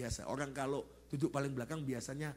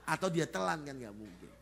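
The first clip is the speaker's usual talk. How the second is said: laughing; 4 dB louder than usual. Real, not acted.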